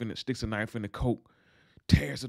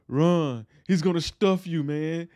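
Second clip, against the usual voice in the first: raised, louder mock-urgent warning; higher, louder, playing alarmed; acted warning; 6 semitones higher, 5 dB louder, slower than usual. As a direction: imitate warning a friend to flee. Franklin warns Oso to flee.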